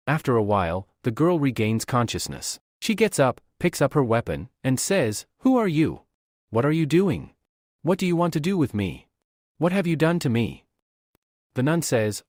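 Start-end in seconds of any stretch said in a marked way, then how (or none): 5.4-10.6 put-on young woman jolted awake, demanding answers; alarmed questions. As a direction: fire questions at a stranger you just woke to. Girl wakes, alarmed by stranger.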